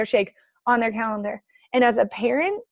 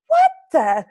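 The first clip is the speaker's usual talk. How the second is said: loud, higher disbelieving cry; shocked outburst; 5 semitones higher, 6 dB louder than usual. Retold or imitated. Learning fries count as vegetables, loud shocked blurt. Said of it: "And I was like".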